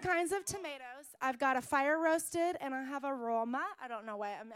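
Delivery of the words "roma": put-on lightly accented Roma. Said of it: "everything's gonna be with an accent".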